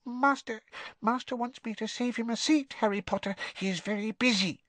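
very high squeaking voice; a house elf meeting someone famous; tiny elf squeak. Acted. Winky introducing herself to Harry, awed squeak. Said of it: "said Winky".

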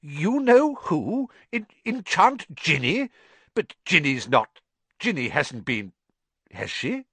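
can't believe it; disbelieving relief. Acted. Father stunned by news.

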